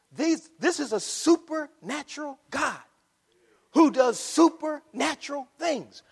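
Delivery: high-pitched, insistent preacher voice; emphatic preaching. Real, not acted. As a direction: preach it with rising conviction. Preaches emphatically after the hushed aside.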